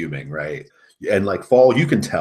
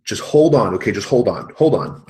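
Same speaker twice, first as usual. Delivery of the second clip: loud, higher, pressing plea; louder and higher, begging her to hold on; urgent hold on; 4 semitones higher, 9 dB louder than usual. Acted. Coach shouting into the phone to his panicked wife, urgently.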